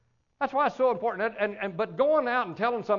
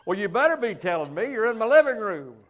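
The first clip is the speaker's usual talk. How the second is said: mock indignant demand; 3 semitones higher, 5 dB louder than usual. Retold demand to crying stranger.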